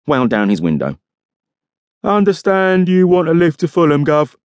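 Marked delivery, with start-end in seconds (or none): 2.0-4.4 high-pitched driver's voice, casual; casual copper, voice lifted high; offhand police driver. A narrator's reading. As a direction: play the driver, pitched well above the narration. Driver's voice in narrated story.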